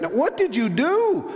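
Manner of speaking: high, emphatic demand; acted nurse pressing hard, pitch swooping up; retold insistent nurse. Nurse presses the apologizing teacher, high and insistent. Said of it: "The nurse comes up to her in the hall and says".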